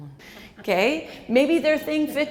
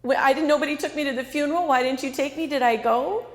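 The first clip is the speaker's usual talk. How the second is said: upset parent; 3 semitones higher, 4 dB louder, faster than usual. Retold or imitated. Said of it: "Let's say they say".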